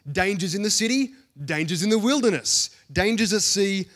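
emphatic, mounting list of perils; building list. A narrator's reading. Preacher reads Paul's list of dangers to the church, building emphatically. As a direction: raise pitch and volume slightly with each danger.

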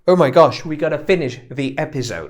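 loud burst on "Oh"; exclaiming. Shown as a demonstration. Host wrapping up the episode, loud sudden exclamation. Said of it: "może to wyrażać całą gamę emocji".

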